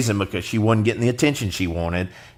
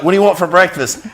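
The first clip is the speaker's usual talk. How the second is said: high, loud cartoonish question; mock parent; 9 semitones higher, 4 dB louder than usual. Parent asks the kid about breakfast, high singsong.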